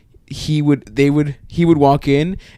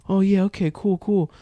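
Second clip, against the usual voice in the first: put-on eager naive kid; 6 semitones higher, 5 dB quieter than usual.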